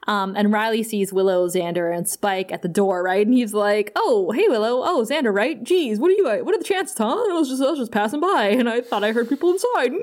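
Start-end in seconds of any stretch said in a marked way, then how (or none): 4.0-9.9 higher, sing-song mock casual chatter; imitating a bad liar playing it casual; lightly hammed-up innocent act; awkward cover story. Acting out Riley's awkward cover story.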